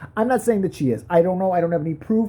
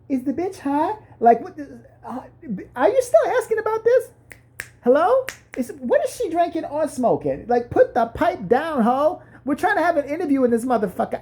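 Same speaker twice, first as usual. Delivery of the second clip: incredulous mock outburst, pitched up; exasperated player; 9 semitones higher than usual. Player mocking interviewer with a mild exasperated outburst. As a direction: play the fed-up guest snapping at the host. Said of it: "the W N B A player wanted to go".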